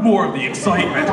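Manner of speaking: dramatic tagline announcer; mock-epic film narration; movie trailer voice. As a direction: intone it like an action promo. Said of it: "that movie voice".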